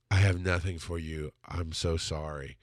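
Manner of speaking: low, subdued, slowing apology; tearful retelling. Retold or imitated. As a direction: retell a crying apology, quietly broken. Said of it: "And I'm crying".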